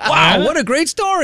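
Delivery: high, overdone enthusiasm; mock enthusiasm. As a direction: gush over the story sarcastically. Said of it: "Maybe a little more enthusiasm".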